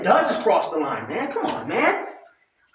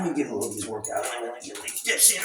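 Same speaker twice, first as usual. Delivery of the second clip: straining mid-workout; 11 semitones lower, 11 dB quieter, much faster than usual. Real, not acted. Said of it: "Let me get these to work out".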